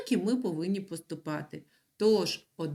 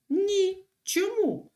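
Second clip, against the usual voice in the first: teacher's quiz question; 11 semitones higher, 4 dB louder, much slower than usual. Acted. Teacher asks class.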